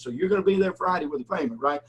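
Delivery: buddy presses the debtor for a date, pointed; pointed question. Retold or imitated. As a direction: pin him down on the payment day. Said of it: "And he goes".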